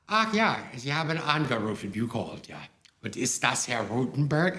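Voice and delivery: German words in an American accent, lightly put on; German mit leichtem amerikanischem Akzent. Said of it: "strong American accent".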